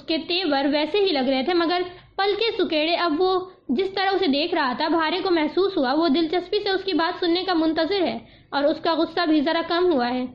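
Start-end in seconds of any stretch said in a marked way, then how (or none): none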